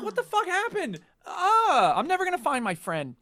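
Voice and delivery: despairing wail, played up for the story; retold dismay. Player losing the lead to their friend, exasperated dismay.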